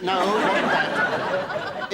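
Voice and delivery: slow arch denial with a laugh; camp innuendo. Acted. Comic denying a rude joke, slow camp drawl. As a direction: drag it out, all innuendo.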